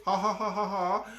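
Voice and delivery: laughing. Real, not acted. Laughs at copy-paste.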